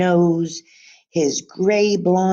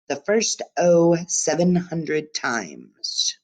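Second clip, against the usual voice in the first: grumpy man; 4 semitones higher than usual. Acted. Gruff old man scolding girl.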